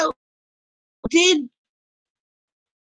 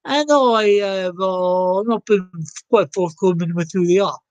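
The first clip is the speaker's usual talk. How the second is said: put-on Aussie accent. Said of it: "I don't know why I'm doing this accent".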